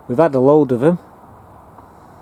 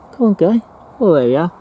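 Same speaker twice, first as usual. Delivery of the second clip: high, coaxing call to a tiny spider; 5 semitones higher, faster than usual. Real, not acted. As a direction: sing it up high to tempt him out. Coaxing spider onto his hand.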